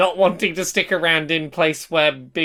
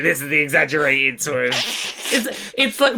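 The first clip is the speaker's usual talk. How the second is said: exaggerated Dorset accent. Shown as a demonstration. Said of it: "do the exaggerated version of your area".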